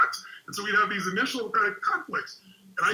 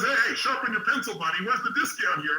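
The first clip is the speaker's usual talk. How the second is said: higher-pitched, demanding haggler's voice; imitated girlfriend; 5 semitones higher than usual. Girlfriend interrupts the store clerk to haggle, imitated demanding voice. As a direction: imitate a partner pushing for a deal. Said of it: "And my girl turns and says".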